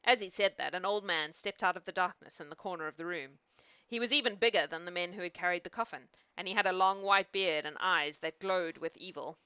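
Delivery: measured fairy-tale reading; storyteller's narration; story narration. A narrator's reading. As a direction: read it aloud as a bedtime tale. Reads a fairy tale aloud.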